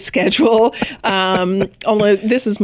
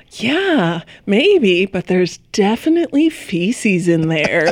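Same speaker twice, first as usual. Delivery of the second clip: imitated dry wife, lightly sarcastic; drawn-out yeah, then a touch of disdain; disdainful sarcasm; slower than usual. Wife answering her upbeat husband about the toilet, dryly sarcastic. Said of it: "tinged with a little bit of disdain and sarcasm".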